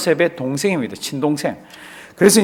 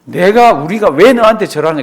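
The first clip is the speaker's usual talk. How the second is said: mock angry retort, a bit louder; angry brothers; 4 dB louder than usual. Brothers angrily rejecting Joseph's dream, mock anger. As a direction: snap back at the little brother. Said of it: "화를 냈잖아요".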